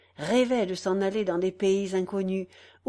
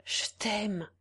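sighed; 5 dB quieter than usual. A narrator's reading. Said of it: "elle soupira".

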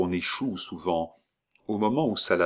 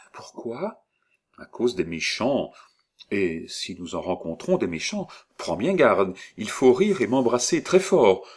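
put-on old woman; 2 semitones higher than usual. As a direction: coax and warn her. Old woman warns child.

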